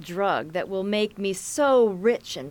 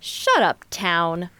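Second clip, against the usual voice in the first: snapping; 2 semitones lower, 3 dB louder, slower than usual. Acted. Conspirators bickering.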